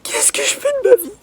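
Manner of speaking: high breathy whisper. Real, not acted. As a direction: whisper it to yourself. Despairing joke, whispered.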